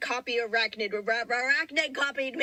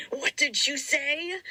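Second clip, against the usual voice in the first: mock angry demand; 4 semitones higher, slower than usual. Angry character line in dramatic reading.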